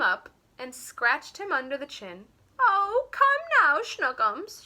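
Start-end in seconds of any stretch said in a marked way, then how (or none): 2.6-4.6 put-on high, tender baby-talk coo. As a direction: coo sweetly to a pet cat. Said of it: "she cooed".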